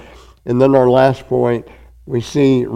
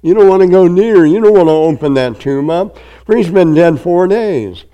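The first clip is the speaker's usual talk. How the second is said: Martha pleading; 4 semitones higher than usual. Acted. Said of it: "And Martha ... said".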